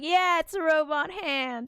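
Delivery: high, put-on boastful voice; mock showing off. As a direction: imitate a character showing off his gadget. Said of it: "he's just like".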